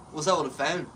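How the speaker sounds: "phone" with a fronted Baltimore vowel; regional pronunciation of phone. Shown as a demonstration. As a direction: say "phone" with the O starting like the A in "fan". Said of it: "But I say".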